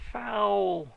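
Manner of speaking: high loud roared cry; loud high mob shout; crowd roar. A narrator's reading. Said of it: "A great roar of".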